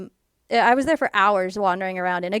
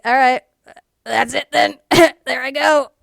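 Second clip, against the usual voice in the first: resigned laugh; 4 semitones higher, 8 dB louder than usual. Retold or imitated. Giving up, collapsed in snow.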